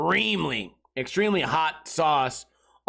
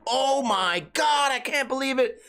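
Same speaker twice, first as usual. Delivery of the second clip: stunned; 8 semitones higher than usual. Acted. Guests stunned by heat.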